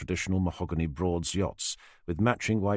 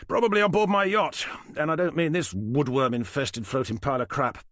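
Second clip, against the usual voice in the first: lightly voiced smug older man; dismissive, a little higher and louder; 7 semitones higher, 3 dB louder than usual. Falcon's held voice.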